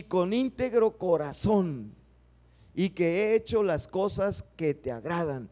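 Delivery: a lightly acted heartfelt supplication; dramatized pleading prayer. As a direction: plead as the weeping king did. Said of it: "poderlo dramatizar como lo debe haber hecho él".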